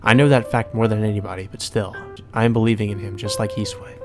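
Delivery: composed first-person narration; story narration. Acted. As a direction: read it out evenly and restrained. Reads game narration.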